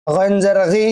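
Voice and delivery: "গি" from the back of the tongue at the throat's edge; throaty ghain. Shown as a demonstration. Teacher drills ghain for learners, back-of-tongue throat sound. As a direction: voice the "গ" of "গইন" far back, where the throat ends. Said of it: "হলকের শেষ থেকে".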